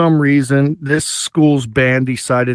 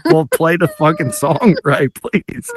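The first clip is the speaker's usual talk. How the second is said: laughing retort; 3 semitones higher, slower than usual. Retold or imitated.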